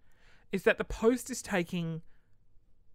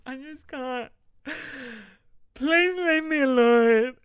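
laughing mock plea; 7 semitones higher, 11 dB louder, slower than usual. Mock plea to emailing customers.

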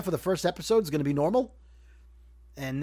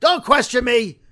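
put-on gravelly old tycoon; 7 semitones higher, 7 dB louder than usual. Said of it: "C E O trailer guy".

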